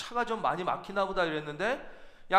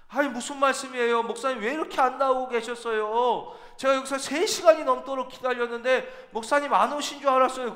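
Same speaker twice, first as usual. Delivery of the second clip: higher, louder puzzled protest; the coordinator pushes back, astonished; surprised protest; 5 semitones higher, 3 dB louder than usual. Retold or imitated. 간사가 억울하게 반박함. (간사가 목사님께 억울하게 놀라며 항의)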